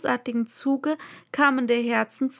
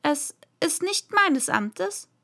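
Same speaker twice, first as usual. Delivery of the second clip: defiant; 6 semitones higher, slower than usual. Acted. Alice answering boldly.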